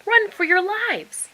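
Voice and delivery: high, loud, slow scream of panic; panicked shriek. Acted. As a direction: scream a warning to the flock. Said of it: "she shrieked".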